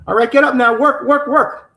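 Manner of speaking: retold shout of a trafficker ordering her to work; barked orders. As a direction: bark out the commands like a slave driver. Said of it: "pounding on the table".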